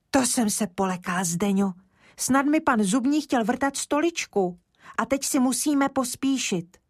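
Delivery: put-on a small boy catching his breath after running away; frightened little boy. Kája after fleeing dentist.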